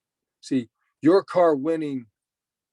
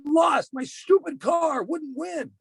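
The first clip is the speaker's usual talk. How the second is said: put-on much higher, slow, wailing child's voice; crying little boy; 11 semitones higher, slower than usual. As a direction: voice the heartbroken son, drawn out. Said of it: "He said".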